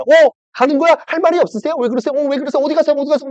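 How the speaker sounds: high, singsong needling questions; high mocking pester; taunting Satan. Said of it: "더 약 올릴 거 아니야".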